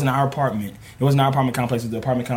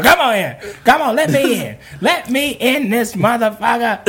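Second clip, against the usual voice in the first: high pleading call up to a window; 10 semitones higher, 3 dB louder than usual. Retold or imitated. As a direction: beg to be let in, half laughing. Drunk man calling up at a window.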